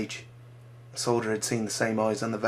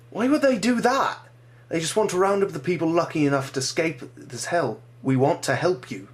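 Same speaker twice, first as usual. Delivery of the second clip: soldier voice; 7 semitones higher, 4 dB louder than usual. Acted. Soldier reassuring boy.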